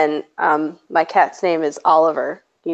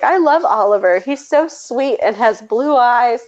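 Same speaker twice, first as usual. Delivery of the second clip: imitated gushing toddler; 5 semitones higher than usual. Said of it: "he was like".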